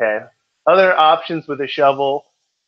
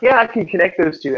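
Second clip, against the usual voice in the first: mock eager student; 6 semitones higher than usual. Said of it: "You're like".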